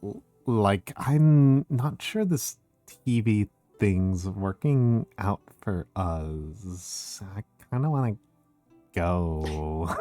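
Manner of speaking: put-on slow, soft Valley Girl drawl; a soft, bored Valley Girl. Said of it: "the Susie Valley Girl".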